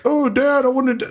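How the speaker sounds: high-pitched imitation of a young son; little kid's protest. Five-year-old son begging Dad, imitated in a high voice. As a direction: plead in a small child's high voice.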